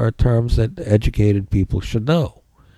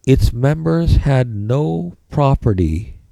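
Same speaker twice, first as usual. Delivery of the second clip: dictating; 3 semitones higher, slower than usual. Shown as a demonstration. Dictating a definition.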